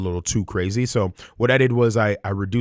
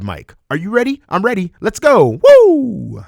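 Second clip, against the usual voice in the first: rally the audience, then shout the send-off; hyped channel intro; 6 dB louder than usual. Shown as a demonstration. Channel intro announcer style.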